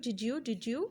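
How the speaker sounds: ordinary talk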